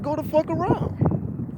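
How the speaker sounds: imitating the driver yelling again; retold yell. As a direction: stretch it out in a high mock shout.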